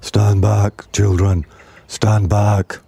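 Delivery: lightly voiced elephant shouting warning; a hint of a big protective elephant; big deep voice. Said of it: "a big, deep voice from the jungle shouted".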